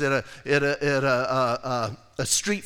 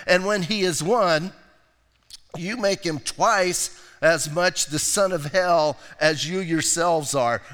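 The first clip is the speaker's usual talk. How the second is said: slow, weighty reading of the woes; solemn pulpit reading; scripture reading; 2 semitones higher than usual. Acted. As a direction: read it like a proclamation. Reads Matthew 23 aloud.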